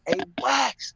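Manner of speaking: high call through a prison vent. Retold or imitated. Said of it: "you would scream through the vent".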